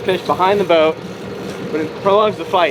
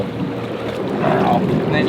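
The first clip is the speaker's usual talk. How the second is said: breathless whispered wow; hushed, awed whisper; excited wildlife host whisper; 6 semitones lower, 4 dB quieter, much slower than usual. Real, not acted. Quiet awe at the fish.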